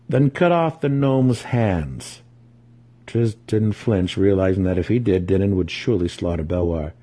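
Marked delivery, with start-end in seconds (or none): 0.1-2.2 slow, cold command; cold order. Acted. Dinan ordering the warrior to maim the gnome, slow cold command. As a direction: deliver it slowly and cruelly. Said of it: "he said to the warrior".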